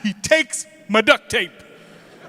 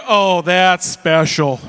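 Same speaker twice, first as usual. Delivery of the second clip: slow, drawn-out sarcastic aside; mock sarcastic; 3 semitones lower, 5 dB louder, much slower than usual. Passing driver in the car judging the kids, slow mock sarcasm. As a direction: drip with fake admiration, slowly. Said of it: "I guarantee you they're not thinking".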